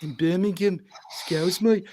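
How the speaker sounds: put-on Brummie accent; Birmingham accent. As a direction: slip into broad Brummie. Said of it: "I was actually born in Birmingham".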